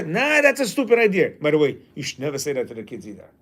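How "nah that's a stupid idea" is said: dismissive. Shown as a demonstration. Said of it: "you don't say".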